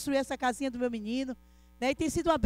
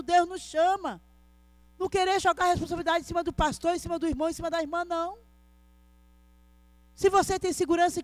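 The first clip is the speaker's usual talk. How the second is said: raised-pitch, insistent church preaching; preaching exhortation; 4 semitones higher than usual. Real, not acted. Preacher telling the brethren to trust God, not people, in insistent exhortation. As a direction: urge the congregation in emphatic phrases with long pauses.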